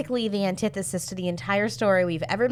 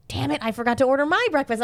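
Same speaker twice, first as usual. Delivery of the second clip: exasperated; 6 semitones higher than usual. Retold or imitated. Retold frustrated self-quote.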